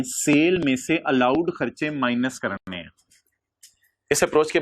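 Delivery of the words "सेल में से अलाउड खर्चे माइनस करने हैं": measured, word-by-word dictation; slow dictation. Real, not acted. Teacher giving the class a line to write, slow dictation. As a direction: dictate slowly for students to write.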